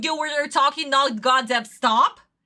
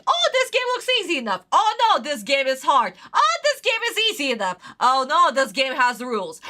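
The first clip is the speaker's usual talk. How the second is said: mocking Yugi. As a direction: mimic him changing his mind over and over. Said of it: "he's mocking the game".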